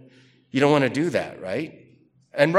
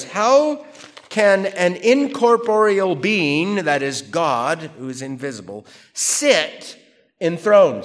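high, loud and slow rhetorical challenge; booming preacher's question; dramatic question; 3 semitones higher, 4 dB louder than usual. Acted. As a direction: throw the question out with wonder. Dramatic reading of Cyril's question.

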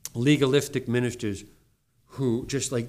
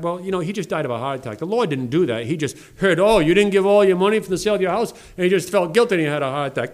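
mocking Bob George; 5 semitones higher, 5 dB louder than usual. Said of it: "Bob George would say".

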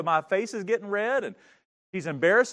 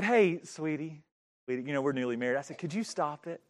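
coaxing; 6 semitones lower, 6 dB quieter than usual. Retold or imitated. Newlywed gently asks wife to stop.

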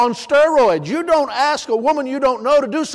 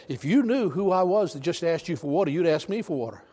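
gentle Jesus; 5 semitones lower, 8 dB quieter than usual. Retold or imitated. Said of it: "He said".

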